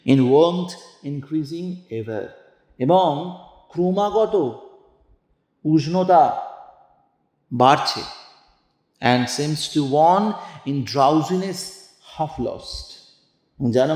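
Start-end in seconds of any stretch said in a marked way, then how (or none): 0.0-2.3 slow, drawn-out recitation of verse; slow poetry reading. Shown as a demonstration. Teacher reading the poem to the class, slow and measured. 9.0-12.9 slow, drawn-out recitation of verse; slow poetry reading. Shown as a demonstration. Teacher reading the poem to the class, slow and measured.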